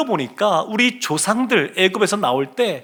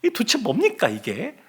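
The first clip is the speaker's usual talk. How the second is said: indignant protest; 3 semitones higher, 3 dB quieter than usual. Retold or imitated. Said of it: "따지는 겁니다".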